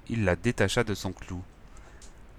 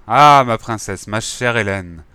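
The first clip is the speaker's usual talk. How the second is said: loud, slow, drawn-out cry of delight; delighted exclamation; 8 dB louder, slower than usual. Acted. King exclaiming over his longed-for princess, loud slow delight. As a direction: greet her as a doting, overjoyed king. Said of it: "Affront s'exclama".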